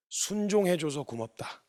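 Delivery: soft, slow fatherly thanks; tender thanks. Retold or imitated. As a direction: say it softly and slowly, as a moved father. Father's tender thanks to his child.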